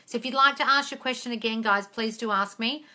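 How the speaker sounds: ordinary talk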